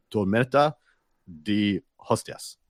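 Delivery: mock Spanish accent, slow and careful. Shown as a demonstration. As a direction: pronounce Tormenta de Hostias like a Spanish local, drawing out de Hostias. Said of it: "I like the accent in there".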